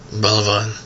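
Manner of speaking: low, soft grinding curse; muttered through teeth. A narrator's reading. Agent cursing quietly through clenched teeth. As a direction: grind it out under the breath. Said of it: "скрипнул зубами зэп".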